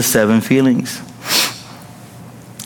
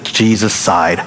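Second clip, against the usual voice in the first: sigh; 4 semitones lower than usual. Retold or imitated. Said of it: "It's hilarious".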